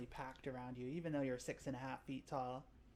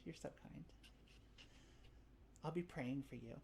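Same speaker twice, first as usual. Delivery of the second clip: soft sweet reply; 3 semitones higher, 8 dB quieter, faster than usual. Acted. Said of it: "She says".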